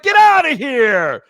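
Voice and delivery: slow, drawn-out Seinfeld-style "Get outta here"; Seinfeld bit. Retold or imitated. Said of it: "it's just Seinfeld bit".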